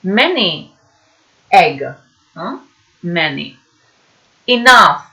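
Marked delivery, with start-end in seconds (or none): 4.5-5.1 Enough with a clear F at the end; model pronunciation. Shown as a demonstration. Teacher models Enough with its F sound. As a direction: say Enough ending in F. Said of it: "The pronunciation is an F".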